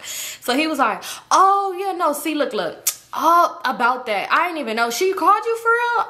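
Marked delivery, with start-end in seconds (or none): 1.3-6.0 higher, fumbling caught-out excuse; lightly voiced busted boyfriend; flustered boyfriend. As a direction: stammer like you got caught.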